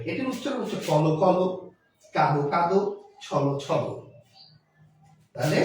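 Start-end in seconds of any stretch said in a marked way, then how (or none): 0.9-3.8 কল and ছল ending in an open o; final O ending. Shown as a demonstration. Teacher demonstrating doubled sound-words, each with final o. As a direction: say কল as kolo, ছল as chholo. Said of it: "ওকার উচ্চারণ হবে".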